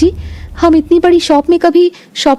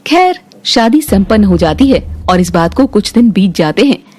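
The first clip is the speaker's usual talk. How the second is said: lower, even storytelling voice; story narration; 4 semitones lower than usual. A narrator's reading. Narrator telling the family story, calm and even. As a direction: narrate the scene calmly, a touch lower.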